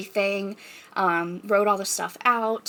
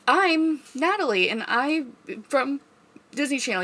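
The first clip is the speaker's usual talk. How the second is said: Disney Channel star intro; 5 semitones higher than usual. Acted. Showing what guests say with the glow stick, mock promo voice. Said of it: "do the actual thing".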